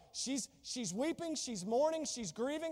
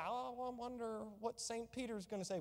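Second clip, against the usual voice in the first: mock worried murmur; 10 dB quieter than usual. Mocking what people say.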